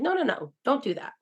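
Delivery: high, rushed no no no; frantic refusal. Retold or imitated. Turning down a friend's gift, a high frantic no.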